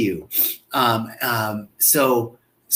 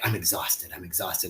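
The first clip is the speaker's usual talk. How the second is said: tired; 8 semitones lower, 11 dB quieter than usual. Retold or imitated. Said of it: "One lady was like".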